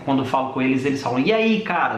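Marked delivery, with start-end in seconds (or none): 1.2-2.0 put-on Portuguese colleague faking a Brazilian accent, pitched higher; mock Brazilian accent. Portuguese coworker teasing the Brazilian, in a mock Brazilian accent. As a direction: tease him with a hammed-up Brazilian greeting. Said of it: "No, no nosso sotaque brasileiro".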